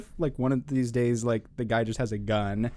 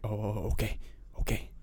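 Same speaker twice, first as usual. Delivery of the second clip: soft, lower imitated letdown; meek backing off; 4 semitones lower, 8 dB quieter, faster than usual. Rebuffed man at the bus stop, meekly giving up. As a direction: let it trail away quietly, deflated.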